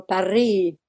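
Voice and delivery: Paris with the R rolled harder. Shown as a demonstration. French speaker demonstrating for the interviewer, rolled R in Paris. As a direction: roll the R in Paris, leave off the S. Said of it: "rolling the R is very French".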